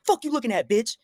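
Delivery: retold hostile challenge.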